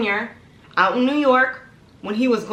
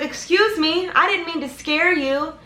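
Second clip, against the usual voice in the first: high-pitched put-on apology; imitated apologetic man; 7 semitones higher than usual. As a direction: play the innocent stranger, high-voiced. Man apologises from car, voiced.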